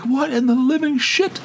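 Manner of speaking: high-pitched, incredulous squawk; exasperated disbelief. Retold or imitated. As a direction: retell it in high, baffled exasperation. Retelling his outburst at endless beeping.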